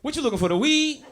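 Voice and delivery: street dealer. Retold or imitated. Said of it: "This nigga was like".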